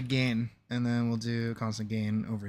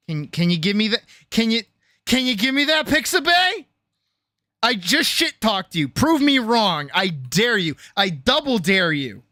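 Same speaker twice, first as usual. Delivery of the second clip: high taunting; 8 semitones higher, 6 dB louder than usual. Real, not acted. Taunting the website, high pitched.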